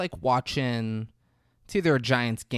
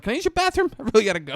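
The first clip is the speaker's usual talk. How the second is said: high, pleading server voice, much higher; whiny server; 11 semitones higher, 6 dB louder, much faster than usual. Retold or imitated. To Gil at the door, a high pleading server voice. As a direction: beg like a desperate process server. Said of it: "the server's like".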